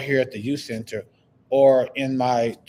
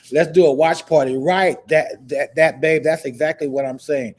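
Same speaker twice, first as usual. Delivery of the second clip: excited; 3 semitones higher, 6 dB louder than usual. Real, not acted. Agreeing eagerly with viewer's idea.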